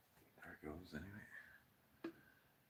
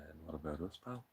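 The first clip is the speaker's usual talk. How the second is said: mock leek voice; 4 dB louder than usual. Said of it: "leeks are looking at me going".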